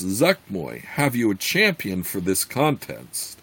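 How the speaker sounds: steady storytelling read; story narration. A narrator's reading. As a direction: read it like an audiobook. Reads novel aloud.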